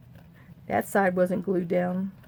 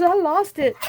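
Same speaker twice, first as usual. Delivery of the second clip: imitating the friend, much higher and louder; mock exclaim, pitch jumped up; retold friend excited; 10 semitones higher, 6 dB louder than usual. Friend admits she broke down, hammed-up high exclaim. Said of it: "She says".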